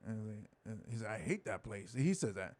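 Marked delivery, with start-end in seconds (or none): 1.1-1.9 low, soft blunt verdict; retold confession. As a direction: drop it low and under the voice.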